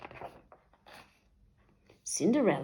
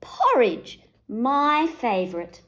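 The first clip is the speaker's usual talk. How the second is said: delighted; 5 semitones higher, 5 dB louder, slower than usual. A narrator's reading. Wolf finds porridge.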